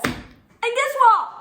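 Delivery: slow, loud, high build; loud teasing buildup; dramatic slow setup. Real, not acted. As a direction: drag it out for drama.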